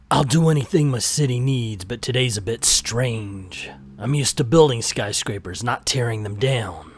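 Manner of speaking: a hint of low hardboiled narration; brooding noir voiceover, lightly done; noir detective. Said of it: "I'm gonna read it like a noir".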